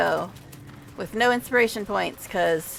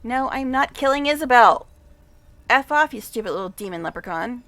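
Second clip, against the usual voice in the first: exasperated outburst; 2 semitones higher, 8 dB louder than usual. Real, not acted. Refusing the game's dialogue option.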